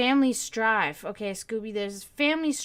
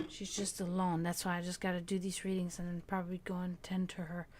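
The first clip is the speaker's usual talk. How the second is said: whisper; 4 semitones lower, 9 dB quieter than usual. Real, not acted. Aside while reading for viewers.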